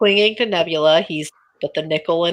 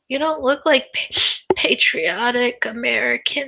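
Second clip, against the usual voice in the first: put-on high little boy voice, stammering and stuttering; 5 semitones higher than usual. Playing a scene, the speaker voices a little boy: little boy's voice, stuttering. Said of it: "I can only do a little boy's voice".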